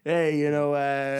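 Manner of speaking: lightly put-on Chicago guy; Chicago guy accent. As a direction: attempt a loose Chicago accent. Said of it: "I'm doing a Chicago guy".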